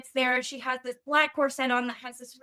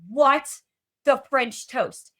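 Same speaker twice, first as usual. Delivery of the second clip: loud, stunned what, then a slow French toast; outraged disbelief; catching her mate with the queen, loud shock; shocked outburst; 2 semitones higher, 7 dB louder, slower than usual. Retold or imitated. Catching him half naked with queen.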